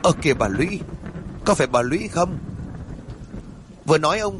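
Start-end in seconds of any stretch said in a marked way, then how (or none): 0.0-2.4 surprised exclamation. Acted. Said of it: "kinh ngạc thốt lên".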